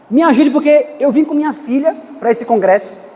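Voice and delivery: mock shouted plea; retold desperate cry. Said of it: "A mãe chega pra mim e fala assim".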